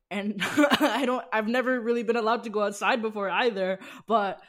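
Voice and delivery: excited, laughing retelling. Retold or imitated. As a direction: laugh while you confess it. Retelling own giddy message to friend.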